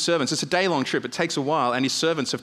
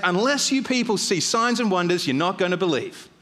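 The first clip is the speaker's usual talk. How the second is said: raised pitch with a touch of sarcasm; sarcastic rebuke; 4 semitones higher than usual. Acted. Jesus rebuking the official and the crowd, sarcastic. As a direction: rebuke them with mild sarcasm. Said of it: "the sarcasm there".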